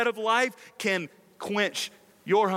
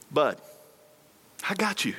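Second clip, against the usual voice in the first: kind and gracious. Retold or imitated. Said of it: "so kindly and graciously said to me".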